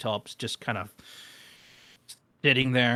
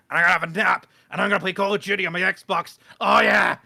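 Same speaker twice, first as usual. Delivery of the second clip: loud, higher, building to a big cheer; mock excitement; 6 semitones higher, 7 dB louder than usual. Gym slacker looking forward to a nap and Xbox, excited. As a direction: get hyped about lazy plans. Acting out happy plans after gym.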